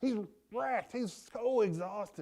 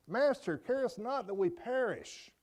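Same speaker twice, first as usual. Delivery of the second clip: retold higher-pitched plea; urgent plea; 5 semitones higher than usual. Fishermen waking Christ in the storm, urgent retold plea. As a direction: cry out to be saved, pitched up. Disciples wake Christ in fear.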